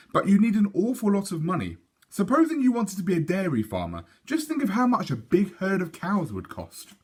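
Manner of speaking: a hint of a reasoning dad; explaining father. Father explaining farm costs to Sophie, patient.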